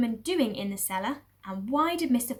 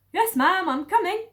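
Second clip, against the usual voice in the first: high, loud servant voice; meek Mabel; 9 semitones higher, 9 dB louder than usual. Acted. Farm woman answers her mistress, high and loud. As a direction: answer quickly, eager to please.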